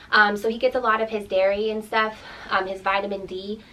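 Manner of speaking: breathless after running upstairs; panting a little between words; out of breath. Real, not acted. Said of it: "I feel like I'm out of breath".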